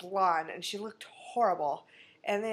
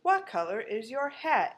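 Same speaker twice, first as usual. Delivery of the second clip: put-on stilted kid reader. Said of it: "the next kid is".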